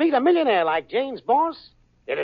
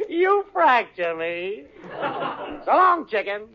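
laughing; 2 semitones higher than usual. Acted. Al laughing at the joke.

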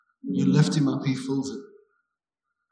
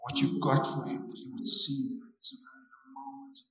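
hushed prayer. Acted. Prays over a man.

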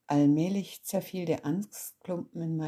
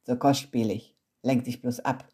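growling father; 4 semitones lower, 3 dB louder than usual. Acted. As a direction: lower grumbling father voice. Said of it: "knurrte mein Vater". (knurrender Vater, tiefere Stimme)

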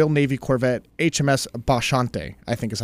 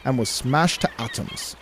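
attempted British accent on a log's last words; 4 dB quieter than usual. Shown as a demonstration. Co-host finishing the captain's log, attempted British accent. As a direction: end the reading in an amateur British accent. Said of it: "one out of ten on my British accent".

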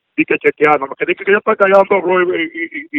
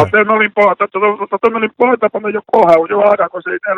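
indignant outburst; 4 semitones higher than usual. Real, not acted. Man yelling at fake Treasury agent, heated and defiant. Victim telling caller off.

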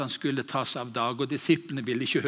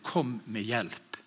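soft translation; 3 semitones lower, 6 dB quieter than usual. Shown as a demonstration. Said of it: "hvis vi skal oversette det".

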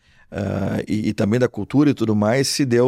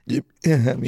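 choking mid-sentence, words catching; choking on a drink. Real, not acted. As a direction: talk while choking on a sip. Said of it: "me engasguei". (engasgado com o mate)

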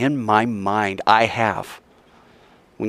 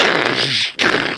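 imitated creaking boat. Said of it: "like it's about to break".

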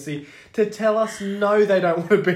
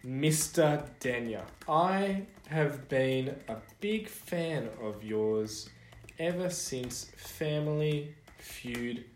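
mock formal letter. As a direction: dictate it like a grovelling fan. Mock fan letter dictated.

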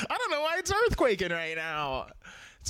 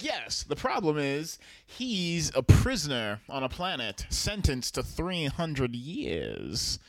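low, stretching out the final words; a touch of solemn pronouncement; lightly voiced grave messenger; 5 semitones lower than usual. Same character breaks bad news to crew.

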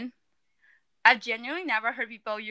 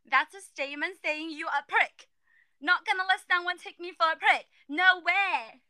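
mock British accent; 5 semitones higher than usual. Shown as a demonstration. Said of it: "you gotta do the accent".

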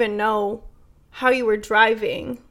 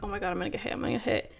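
hushed, much softer inner panic; retold anxious thought; 2 semitones lower, 11 dB quieter, much faster than usual. Driver thinking to herself between two semis, hushed anxious thought. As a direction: replay a fearful thought under your voice. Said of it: "so terrified to get hit".

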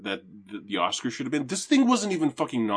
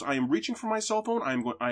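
higher, insistent statement; urgent assertion; 5 semitones higher, faster than usual. Retold or imitated. Woman asserts rights at cop.

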